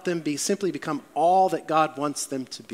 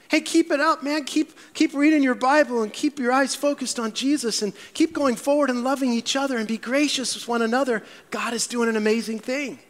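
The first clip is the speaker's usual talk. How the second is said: upbeat encouragement; 5 semitones higher than usual. Retold or imitated. Barnabas cheering on the new believers, eager and lifted. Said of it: "he encouraged them".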